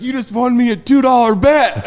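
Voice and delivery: loud, high redneck whoop; Florida redneck. Acted. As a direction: crow it like a Florida redneck who won. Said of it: "what a true Florida redneck sounds like".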